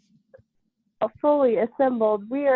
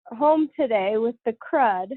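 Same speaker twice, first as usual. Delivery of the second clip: nasal voice from a cold. Real, not acted. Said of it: "nasally voice".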